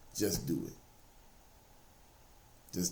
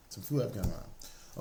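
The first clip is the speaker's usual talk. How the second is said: softer repeat, dropping back down; quiet echo; 2 semitones lower, 5 dB quieter than usual. Real, not acted. Preacher repeats the promise to listeners, softly. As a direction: let it settle gently after the peak.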